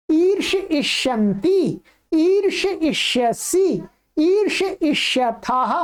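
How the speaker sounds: "ईर्ष इष्यति" with "ईर्ष" blended, then "इष्यति"; pronunciation demo. Shown as a demonstration. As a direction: model each form like "ईर्ष इष्यति", drawing out the first vowel. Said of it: "इस प्रकार से बोलना पड़ेगा". ("ईर्ष इष्यति" जैसा जोड़कर उच्चारण)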